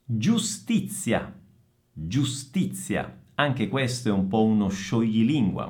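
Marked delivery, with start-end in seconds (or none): 0.1-3.2 slow GIUSTIZIA with ts in ZIA; voiceless Z. Shown as a demonstration. Teacher models a tongue twister, slow careful GIUSTIZIA. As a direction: enunciate GIUSTIZIA slowly, crisp ts. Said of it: "Stessa Z sorda di pizza".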